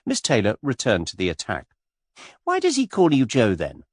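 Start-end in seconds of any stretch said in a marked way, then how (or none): 2.4-3.8 put-on much higher, girlish gushing voice; skittish young lady. A narrator's reading. Miss Taylor pestering Mister Cade, high and gushing. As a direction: flutter up high like a giddy girl.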